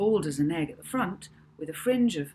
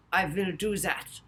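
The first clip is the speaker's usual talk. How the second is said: put-on German accent; 2 semitones higher than usual. A narrator's reading. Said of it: "in a German accent".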